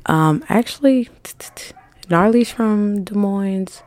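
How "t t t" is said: quick soft tongue clicking; tongue clicks. Real, not acted. Host recalling the list of openers, soft tongue clicks. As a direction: click your tongue softly while thinking. Thinking while listing the openers.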